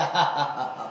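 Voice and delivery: low mock laugh, ha by ha; imitated laughter. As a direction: act out a bully laughing at his victims. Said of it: "की मग हसायचा". (दुष्ट मुलाच्या हसण्याची नक्कल)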